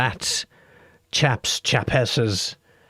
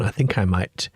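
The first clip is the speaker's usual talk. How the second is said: whisper; 2 semitones lower than usual. Real, not acted. Trailing whisper musing aside.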